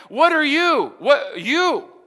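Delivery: high, loud question landing on "you"; stress on YOU. Shown as a demonstration. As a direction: punch "you" and repeat it as a challenge. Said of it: "God was emphasizing you".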